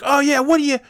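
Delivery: high, loud mock yell at the other driver; retold screaming match. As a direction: yell it back up high like a furious stranger. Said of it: "we just start screaming at each other".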